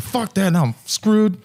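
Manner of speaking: high, drawn-out mock dismay; mock exasperation. Biker finding the forecast wrong, mock exasperation. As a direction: whine it slowly in comic defeat.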